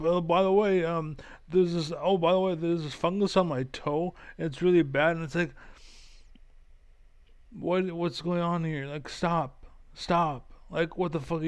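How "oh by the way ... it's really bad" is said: mocking news host. Vlogger mocking a partisan news anchor, hammed-up sing-song. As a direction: ham up a breathless anchor hopping between stories. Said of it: "some blue bullshit with Adam Moncler".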